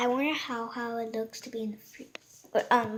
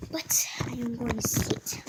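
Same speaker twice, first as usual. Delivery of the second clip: whispering. Real, not acted. Whispered aside.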